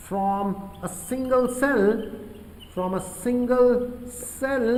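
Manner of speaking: very slow, word by word, with long pauses; slow dictation. Shown as a demonstration. Teacher dictating the third point for students to copy, very slowly. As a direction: dictate it slowly so students can write along.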